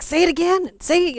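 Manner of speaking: put-on high, loud teasing kids' chant of Say it again; mocking classmates egging her on; teasing kids. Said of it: "the kids would be like".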